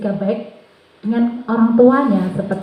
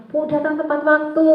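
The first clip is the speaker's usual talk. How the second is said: lightly voiced pupil, higher pitch; anak menjawab guru; 6 semitones higher than usual. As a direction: imitate a child answering the teacher. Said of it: "Yang satunya". (suara murid menjawab, agak tinggi)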